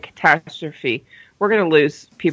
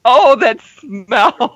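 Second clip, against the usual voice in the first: disgusted; 4 semitones higher, 3 dB louder, much slower than usual. Real, not acted. Skunk-sprayed dog stinks.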